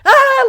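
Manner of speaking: sudden high, loud yelp of alarm; startled cry as if caught out; panicked yelp. Retold or imitated. Wife catching husband reading her manuscript, yelping loudly. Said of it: "covering up the screen".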